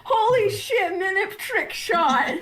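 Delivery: excited. Real, not acted. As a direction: yell it out in delight. Cheering a trick shot.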